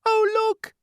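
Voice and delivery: very high, loud exclaim; shouted. A narrator's reading. Ladybird alerting everyone, excited shout. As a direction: point in amazement. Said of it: "shouted the ladybird".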